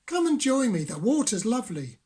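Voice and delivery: high, loud cheerful fish. A narrator's reading. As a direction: invite them into the water. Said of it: "said Fish".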